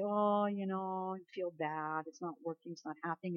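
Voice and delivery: mock a discouraged believer giving up; mildly mocking defeat; defeated whining. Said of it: "we usually walk away and say".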